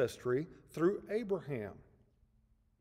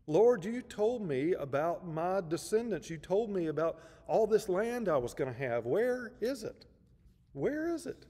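mild frustrated complaint, pitching higher on the repeated question; 3 semitones higher than usual. Acted. Abraham to God about the missing promise, mildly frustrated. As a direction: plead for what was promised, with understated exasperation. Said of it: "So he's showing his frustration".

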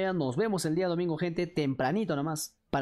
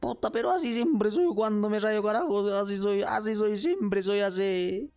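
mock angry rant; 3 semitones higher than usual. Boyfriend snapping back at girlfriend, hammed-up angry rant. Acting angry partner ranting.

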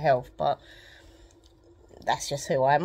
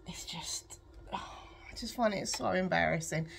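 breathless hushed confession; embarrassed whisper; 4 dB quieter than usual. Real, not acted. Telling viewers about crying in the pharmacy, whispering with embarrassment. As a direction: drop to a whisper, ashamed. Describing crying alone in shop.

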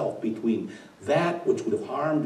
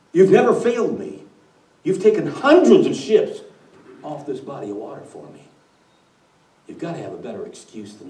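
devil's rebuke; 6 dB louder, faster than usual. Acted.

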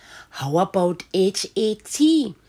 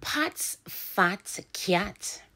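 slow breathy read-along; slow whispered phonics read; 5 dB quieter, much slower than usual. Shown as a demonstration. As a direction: whisper it slowly word by word. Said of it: "Read that with me".

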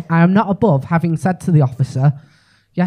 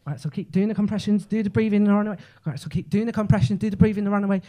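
mock dispatcher; 3 semitones higher, 5 dB quieter, faster than usual. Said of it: "and I go".

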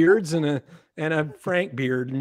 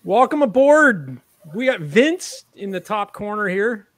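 wrestling announcer; 4 semitones higher, 5 dB louder than usual. Acted. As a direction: introduce him like a wrestling ring announcer. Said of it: "I sound like a, an announcer for a wrestling ring".

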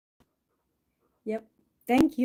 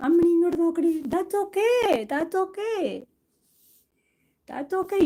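coaxing pet voice; 5 semitones higher, much faster than usual. Real, not acted. Coaxing cat on live stream.

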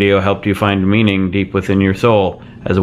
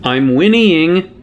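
Charlie Sheen horse; 6 semitones higher, much slower than usual. Pretend. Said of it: "Charlie Sheen's impression of a horse".

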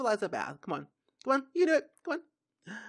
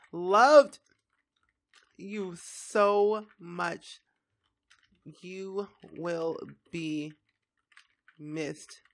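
tender farewell; 5 semitones lower, much slower than usual. Real, not acted. Farewell to dead Sim.

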